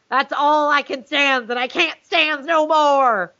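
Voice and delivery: slow lightly voiced Popeye; a hint of Popeye growl. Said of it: "In the words of Popeye".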